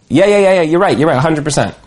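rattling off yeah yeah to get rid of a pest; dismissive brush-off. Retold or imitated. Getting a chatty visitor out, impatient brush-off. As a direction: hurry them out of the office. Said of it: "you want to get them out of there".

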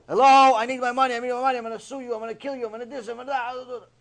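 high, loud demand that fades off; hounding creditor. Retold or imitated. Creditor hounding the guy who owes, loud then fading. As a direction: badger him for the money, starting loud.

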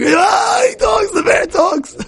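put-on baby's excited shriek. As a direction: shriek with a toddler's delight. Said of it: "And the baby's going".

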